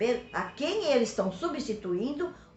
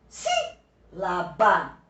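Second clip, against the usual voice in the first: "Sílaba" very slow, split, with a strong SÍ; teacher's slow SÍ-la-ba demo; stress on first syllable; 3 semitones lower, much slower than usual. Shown as a demonstration. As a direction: hit the first syllable of "Sílaba", then space out the rest. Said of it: "Quando ela for a antepenúltima".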